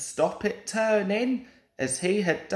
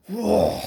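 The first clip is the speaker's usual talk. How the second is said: blowing whoa; 4 dB louder than usual. A narrator's reading. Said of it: "said Gordon".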